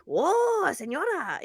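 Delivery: high, drawn-out starstruck "Whoa"; mock admiring fan. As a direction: gawk like a dazzled fan on the street. Imitating admiring Mexican fans.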